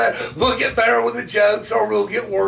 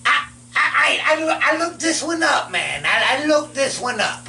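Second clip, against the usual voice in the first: Southern skeleton voice; 3 semitones higher than usual. Pretend. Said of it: "Southern skeleton voice".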